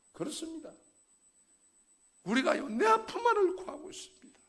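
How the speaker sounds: loud, high sermon exhortation; fiery preaching. Acted. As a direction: preach it out to the congregation. Preaching climax. (큰 소리로 열정적으로 설교하듯)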